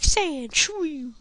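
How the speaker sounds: high yelled creature call of its own name; Pokemon cry. Pretend. Player voicing Sandshrew crying its own name, high and loud.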